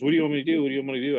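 lightly acted fretting; mock panic. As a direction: imitate a flustered man begging for instructions. Retold flustered manager follows him asking.

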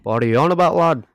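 put-on a bloke in a British accent asks what his mate means; English accent. English accent jokingly put on. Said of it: "do our accents the entire time".

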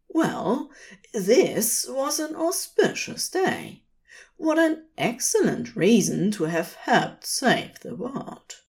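high, giddy wonder; bubbling over with joy; giddy delight. A narrator's reading. Aziraphale's giddy inner voice.

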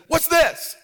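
high, eager question; excited kid question. Retold or imitated. Little kid to grandpa, high eager question. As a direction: ask it up high like a curious kid.

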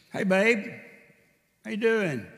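high, loud, cheerful hello; cheery greeting. Retold or imitated. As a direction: greet her brightly, hoping for an answer. Greeting wife at stove.

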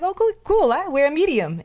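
high, bright mock gush; retelling her friend's giddy reply; mock excited quote. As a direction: squeal it like she's thrilled. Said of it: "And she's like".

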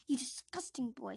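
loud contemptuous aunt; Aunt Petunia. Acted. Aunt insulting the boy, loud contempt. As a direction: spit it with contempt. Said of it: "says Aunt Petunia".

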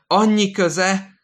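high, loud and slow; slow shouted repeat. Acted. Old man repeating his words to the nurse, slow high shout. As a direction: drag the annyi out in a shout. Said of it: "ismétli".

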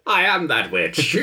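high, slow mock witch; teasing, drawn-out witch impression. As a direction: butt in as a storybook witch. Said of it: "I thought this was your witch voice".

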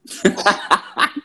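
breathy held-in laugh; trying to hold back a laugh; snorting laughs. Real, not acted. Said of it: "eu tô rindo tanto que daqui a pouco vai ser uma risada de porquinho".

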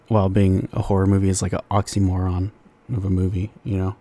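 talking between sips of a drink; a drink at the lips while talking; sipping through a straw. Real, not acted. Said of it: "I'm drinking by the mic".

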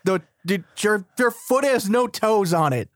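high, slow, mock-scolding voice; mocking the prince.

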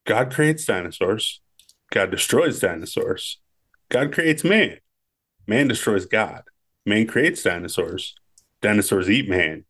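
slow, measured pronouncement, lightly voiced; Malcolm quote. Friend reciting Malcolm's speech, slow and measured. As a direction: deliver it like a slow philosophical warning. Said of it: "Ian, Malcolm".

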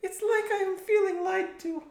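high Russian woman voice; Russian accent. Retold or imitated. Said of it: "my impression of every woman".

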